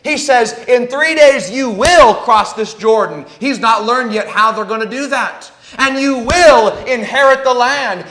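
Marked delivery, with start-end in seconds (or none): 0.7-3.2 firm emphasis on "will"; incredible conviction. Acted. Preacher quoting Joshua's promise to his troops, with conviction. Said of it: "Notice Joshua's incredible conviction". 5.8-8.0 raised, emphatic pledge stressing "will"; incredible conviction. Acted. Preacher quoting Joshua on inheriting the land, with conviction. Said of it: "Notice Joshua's incredible conviction".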